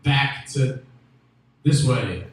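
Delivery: rally them with a yell. Retold or imitated. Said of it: "Harriet Tubman had yelled".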